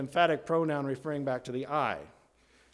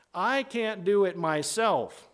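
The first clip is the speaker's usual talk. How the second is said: "I can't do it myself" higher and slower, emphatic; slow, raised-pitch insistence on "I can't do it myself"; emphatic admission; 5 semitones higher, slower than usual. Acted. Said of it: "Paul is emphasizing here his own depravity".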